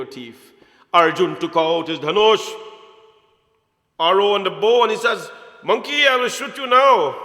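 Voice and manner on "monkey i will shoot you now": loud, higher threatening shout; furious archer's threat; angry threat. Acted. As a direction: threaten him with the bow drawn. Arjun draws bow, threatens.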